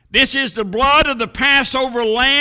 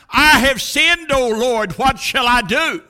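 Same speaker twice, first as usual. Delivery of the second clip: impassioned cry, raised pitch at first; 3 semitones higher than usual. Acted. Preacher voicing Job's question to the Lord, crying out. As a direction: cry it out like a desperate plea. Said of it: "when he cried out".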